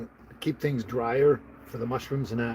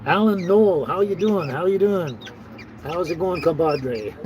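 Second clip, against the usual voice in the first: bright, raised greetings called out to viewers; cheery hello; 4 semitones higher, 3 dB louder than usual. Real, not acted. Vlogger greeting viewers joining his live stream, cheerful and raised. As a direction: welcome each viewer by name, lifted and louder.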